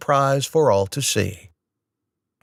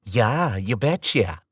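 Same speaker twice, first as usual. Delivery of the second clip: sarcastic; slower than usual. A narrator's reading. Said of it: "with the thick sarcasm of molasses".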